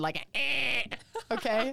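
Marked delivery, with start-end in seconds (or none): 0.4-0.8 short nasal buzz imitation; buzzer noise. Shown as a demonstration. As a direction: make a game-show buzzer sound. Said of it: "I want a buzzer".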